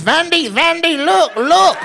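very high, excited mock Asian dealer accent; hammed-up Asian dealer, squealed high; happy Asian dealer. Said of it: "be so happy when you win".

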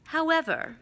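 measured, clearly articulated; Dumbledore, slow and clear. Acted. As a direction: make the word count. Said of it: "speaking very slowly and clearly".

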